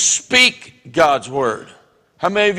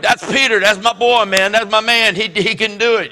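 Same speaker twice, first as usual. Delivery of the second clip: higher, proud cheering; cheering him on; 5 semitones higher, 3 dB louder than usual. Retold or imitated. Disciples cheering as Peter walks on water, excited and proud. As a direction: hype up your buddy. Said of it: "they were like".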